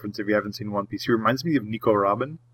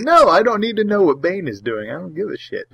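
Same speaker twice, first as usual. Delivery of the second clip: exasperated; 7 semitones higher than usual. Retold or imitated. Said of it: "And I'm like".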